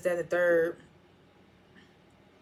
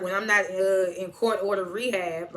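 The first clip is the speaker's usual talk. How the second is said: mock-sarcastic retelling, slightly pointed; 4 dB louder than usual. Grandma needling Tariq about her court-ordered rehab, sarcastic. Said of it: "saying it sarcastically".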